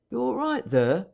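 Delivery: calling through door. Acted. Hall calls through door.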